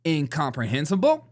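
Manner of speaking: mock-proud Incomprehensible with a rising lilt; animated big word. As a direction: savor Incomprehensible like a new toy. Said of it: "animated about it".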